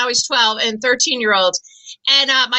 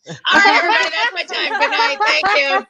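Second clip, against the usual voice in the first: laughing sign-off; 8 semitones higher than usual. Real, not acted.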